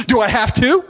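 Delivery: high, whiny daughter's question; reluctant teen. Retold or imitated. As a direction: imitate a teenager dragging her feet. Acted reluctant teenage daughter.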